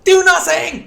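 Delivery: sudden high yelled quote; mock shout. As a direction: bark it out like an angry teammate. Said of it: "Like, they say that".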